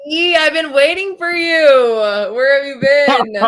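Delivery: put-on British complaint; British accent. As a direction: call out in exaggerated British, stretching the end. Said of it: "Give us your best accent".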